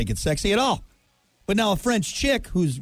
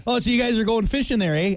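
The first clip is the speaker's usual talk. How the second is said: imitated Canadian accent, slightly raised pitch; 3 semitones higher than usual. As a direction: mimic a Canadian's friendly eh. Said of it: "hear a real Canadian say".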